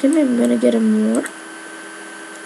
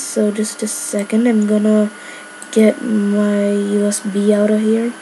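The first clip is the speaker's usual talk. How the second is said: talking through hiccups; small hiccup breaks in words. Real, not acted. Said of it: "'cause I still have the hiccups".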